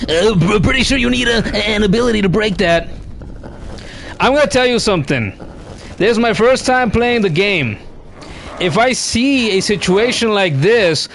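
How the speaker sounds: high nasal-free nerdy know-it-all voice; nerd voice. Pretend. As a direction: play the smug gamer nerd. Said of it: "Here comes the comeback of the nerd voice".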